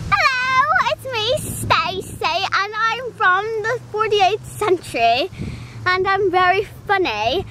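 put-on accent of no clear place; hammed-up doll voice in a made-up accent; Stacy. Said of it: "I'm speaking in an accent".

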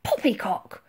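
loud, indignant bluster; thundering. A narrator's reading. Admiral rejects the girl's plan, thundering. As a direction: boom it with indignation. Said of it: "thundered the Admiral".

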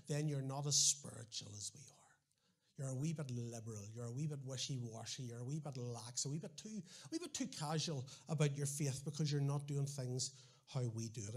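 a hint of a sniffy judging churchgoer, hushed and condescending; mock judgmental. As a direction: murmur the verdict like a smug insider.

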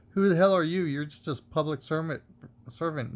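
indignant challenge. Acted. Citizen talks back to a cop demanding ID, indignant. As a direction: challenge the officer's authority, pitch jumping up at the start.

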